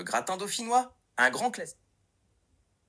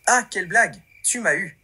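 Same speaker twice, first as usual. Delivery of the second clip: louder, lively opening exclamation; pretend amused relief; 3 semitones lower, 5 dB louder than usual. AI assistant learning it was all a joke, mock relieved. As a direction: act relieved at being pranked, without real laughter. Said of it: "réagir en rigolant et en étant soulagé".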